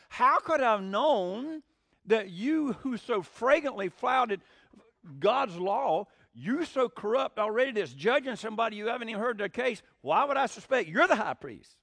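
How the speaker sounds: drip with irony at the corrupt priest; ironic rebuke. Retold or imitated. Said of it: "what Luke may be implying".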